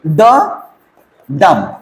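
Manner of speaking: light "ड", then stressed "डम"; "ड" unstressed, "डम" stressed with falling pitch; unstressed-stressed beat. Shown as a demonstration. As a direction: beat out an iamb, weak "ड", pause, strong "डम". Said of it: "unstressed, stressed है".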